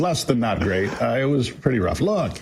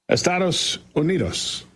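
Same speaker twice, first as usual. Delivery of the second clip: slow, careful attempt at Spanish pronunciation; an English speaker gamely tries out his Spanish; 3 semitones higher than usual. Host showing off his Spanish to the panel, slow and careful. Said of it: "you were pretty poor".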